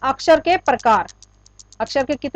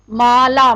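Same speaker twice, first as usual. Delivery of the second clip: माला with more pressure on ला than मा; stress on ला; 4 dB louder, much slower than usual. Shown as a demonstration. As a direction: lean into the ला of माला. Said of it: "ला के ऊपर हम ज्यादा pressure दे रहे हैं". (माला में मा की बजाय ला पर ज़ोर)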